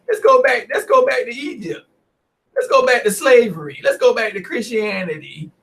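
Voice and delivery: hammed-up fake-tearful whining; mocking weaklings. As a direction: beg to go back like a sniveling coward. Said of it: "Listen to the rest of the weaklings".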